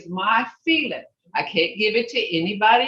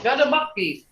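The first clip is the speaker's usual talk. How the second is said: higher, demonstrated mad tone; 4 semitones higher than usual. Shown as a demonstration. Teacher telling student to say it in that tone, demonstrated mad tone. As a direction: show the mad tone with a raised pitch. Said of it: "Say it in that tone".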